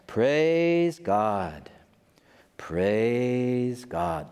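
a hint of a chanting believer; lightly mocking worshipper. Crowd around the preacher keeps praising God, lightly mocked chant. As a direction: murmur it like the crowd round the preacher. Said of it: "just like that".

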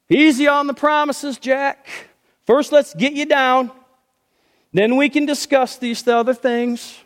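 lightly voiced God calming Jack; calm divine voice. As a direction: settle him down calmly.

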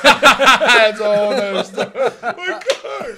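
talking through loud laughter; cracking up. Real, not acted. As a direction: voice shooting up high with real laughter. Cracking up at shared memory.

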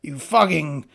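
high, loud mock outrage; outraged know-it-all. Mocking the Darwin ranter scolding her. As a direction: ham up an offended pseudo-intellectual. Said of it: "he'd be like".

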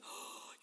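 soft, breathy imitation gasp; mock shocked gasp. Imitating podcast listeners who spot a favourite, mock gasp. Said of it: "House Liability listeners going".

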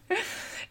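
high, soft breathy giggle; amused laugh. Real, not acted. Podcaster after her mock yelling, soft giggle. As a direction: giggle at your own outburst.

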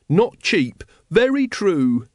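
high, emphatic yes-man voice; agreeing follower. A narrator's reading. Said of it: "nodded Brother Watchtower".

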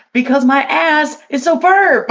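half-shouted comic exclamation; excited shouting. Real, not acted. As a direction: crow it out loudly, high-pitched. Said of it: "I was shouting about my ass".

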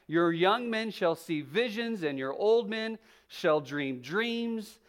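measured, projected Bible reading; scripture reading. Acted. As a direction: proclaim the prophecy to a congregation. Reads scripture aloud to congregation.

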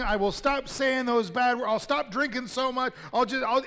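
high, loud, desperate bargaining; frantic pleading. Acted. Man dangling over a drop bargains with God, frantic and high. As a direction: beg and promise anything to be saved. Jack begs God for rescue.

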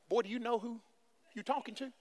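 quiet menacing mother; soft threat to her son; mother's hushed warning. Acted. Mary scolding Jesus.

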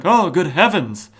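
high, loud startled gasp of fear; frightened cry. Retold or imitated. Butler scared by the Spectre, high frightened yelp. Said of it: "and he's like".

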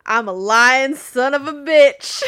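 loud, slow, smug wrestler line; Kevin Nash impression. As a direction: drawl it like a heel promo. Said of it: "so I'll let you deliver it".

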